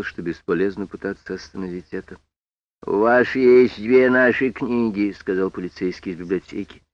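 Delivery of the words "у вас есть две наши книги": slow, loud, looming threat; menacing policeman. Acted. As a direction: lean on every word, menacing. Library policeman confronts Sam.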